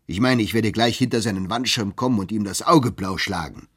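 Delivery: loud, blustering threat to fight; bellowing. Acted. The clerk Turkey threatens to beat up Bartleby, bellowing. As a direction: roar it like a hothead spoiling for a brawl. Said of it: "brüllte Turkey".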